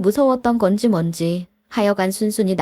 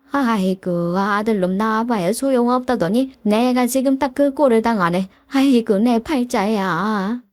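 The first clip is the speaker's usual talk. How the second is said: mock lament. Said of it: "이러면서 썰을 풀기 시작하니까".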